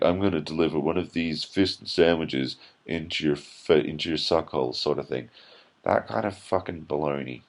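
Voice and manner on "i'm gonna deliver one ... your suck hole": wacky improv character. Retold or imitated.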